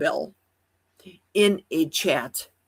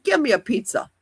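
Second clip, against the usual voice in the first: higher-pitched, put-on New York accent; 4 semitones higher, faster than usual. Shown as a demonstration. The speaker showing how she picks up accents on vacation, mock New York accent. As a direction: talk like a mock New Yorker. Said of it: "I start talking like a New Yorker".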